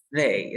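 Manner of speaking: "They" opening on a buzzing th; tongue between teeth to begin "They"; voiced TH demo. Shown as a demonstration. Teacher repeats it for the student, voiced TH demo. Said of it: "Por lo tanto, sería they".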